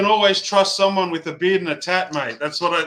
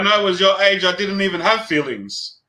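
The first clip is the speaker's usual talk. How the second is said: mock old-timer; 3 semitones higher than usual. Mock old-man cliché.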